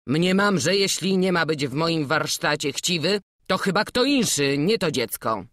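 a master scolding the greedy journeyman; stern. Acted. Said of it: "spojrzał surowo i rzekł".

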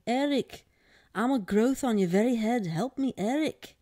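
high, pleading little creature; small little voice. A narrator's reading. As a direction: plead as a tiny talking growth. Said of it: "the very same voice spoke".

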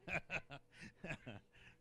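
short chuckle in reply; amused chuckle, acting out a reaction; retold laugh. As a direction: laugh it off briefly. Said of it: "I'm going".

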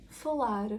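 ФАЛАР ending in a light soft R; soft final R. Shown as a demonstration. Teacher shows word-final R, soft-ended ФАЛАР. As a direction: finish ФАЛАР with a gentle tapped R. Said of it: "м'якенька".

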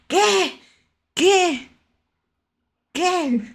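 high, startled gasp of a question; real stunned surprise; shocked disbelief. Real, not acted. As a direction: blurt it out in high-pitched shock. Sees follower count near seven hundred.

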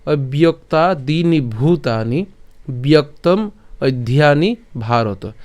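slow, measured Sanskrit shloka recitation; stretched, deliberate scripture reading; verse recitation. Shown as a demonstration. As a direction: recite the line slowly, word by word. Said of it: "প্রথম লাইনটা আবার বলছি".

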